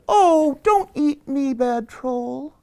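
high-pitched little-goat plea; little goat pleading. Acted. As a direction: plead with the troll in a tiny high voice. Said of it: "little Billy Goat Gruff said".

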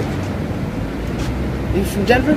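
slow, stretched-out repeat of the question; very slow drawn-out question. Acted. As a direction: stretch out every word slowly. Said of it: "Did you think looking around would make me from Denver?".

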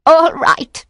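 high, fearful giving in; high-pitched nervous yielding; frightened surrender. A narrator's reading. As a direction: give in, high and scared. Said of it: "She trembled".

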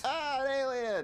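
scared cry. Acted. Scared by alien.

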